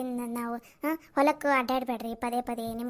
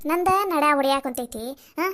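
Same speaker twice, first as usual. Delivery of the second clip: ನಂದ ನಡ ಹೊಡ್ಯಾಕ್ ಕುಂತೈತಿ thrown out loud and sharp; loud complaint; 5 dB louder than usual. Acted. Daughter-in-law loudly refusing to press his legs. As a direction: snap it at him, exasperated and loud.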